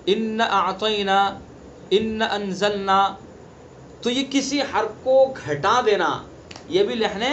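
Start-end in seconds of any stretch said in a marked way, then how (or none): 0.0-3.0 short inna in ان اعطینا and ان انزلنا; unstretched alif mistake. Shown as a demonstration. Teacher giving further examples, short a in ان اعطینا، ان انزلنا. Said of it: "الف کو کھینچتے نہیں".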